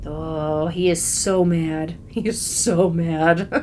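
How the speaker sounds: slow, savoring each word; drawn-out relish. Real, not acted. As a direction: stretch it out with a long SO. Gleefully relishing someone's anger.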